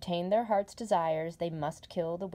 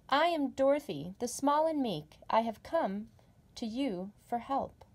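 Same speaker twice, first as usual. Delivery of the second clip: put-on higher, small girl's voice; meek Dorothy; 5 semitones higher, 3 dB louder than usual. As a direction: answer timidly but bravely. Dorothy answers Oz timidly.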